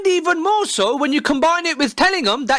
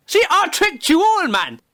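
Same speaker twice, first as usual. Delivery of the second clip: gloating reveal; 4 semitones higher than usual. Acted. Vlogger revealing the prank to viewers, gloating. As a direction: crow about the trick.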